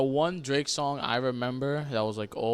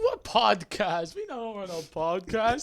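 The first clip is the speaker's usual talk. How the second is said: playing dumb; 5 semitones higher, 4 dB louder, slower than usual. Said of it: "It's like".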